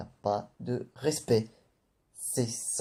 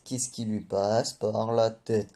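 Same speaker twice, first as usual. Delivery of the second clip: slower, drawn-out repeat of the question; slow disbelief; slower than usual. Acted. Reviewer repeating his question about Nami, slow and incredulous. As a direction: let the disbelief sink in, deliberately.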